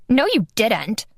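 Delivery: a touch of a whiny comeback; petulant retort. Acted. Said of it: "a petulant voice shouted".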